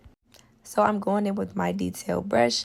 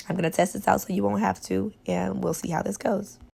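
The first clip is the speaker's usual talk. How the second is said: hoarse voice from a cold; raspy, sore-throat voice; smoker's rasp. Real, not acted. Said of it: "I know I sound horrible".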